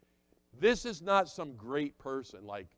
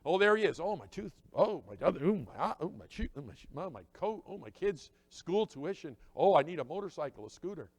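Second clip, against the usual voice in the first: mock needy pastor; 3 semitones higher, 5 dB louder than usual. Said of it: "He's thinking".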